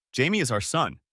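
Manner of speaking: "our" given special emphasis, standing out from the rest; stress on OUR. A narrator's reading. Father correcting his wife about their son, stressing "our". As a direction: lean on the word "our". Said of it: "I put special emphasis on the word our".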